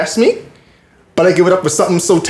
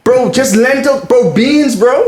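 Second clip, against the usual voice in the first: high, laughing disbelief; incredulous laughing rant; 9 semitones higher than usual. Real, not acted. Incredulous rant about veggie stew.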